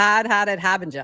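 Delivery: Massachusetts accent with the r's dropped. Reading out a viewer's comment to show own accent: Massachusetts accent. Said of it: "So that's how I would say that".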